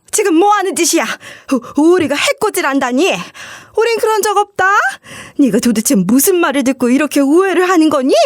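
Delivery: high-pitched indignant mother-in-law denial; mock browbeating. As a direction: snap back, caught and defensive. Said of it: "저랑 똑같이 윽박질렀거든요". (시어머니가 며느리를 붙들고 높은 톤으로 윽박지르기)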